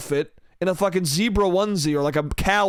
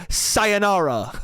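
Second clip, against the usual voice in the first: drawn-out goodbye; 2 semitones higher, much slower than usual. Acted. Acted dismissal of a date.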